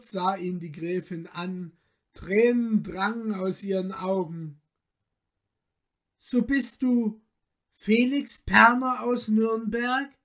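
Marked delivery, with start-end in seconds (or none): 6.2-10.1 higher, stirred questioning call; moved exclamation. A narrator's reading. Tearful countess recognising the young man, moved exclamation. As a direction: ask it in dawning, emotional recognition. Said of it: "rief sie".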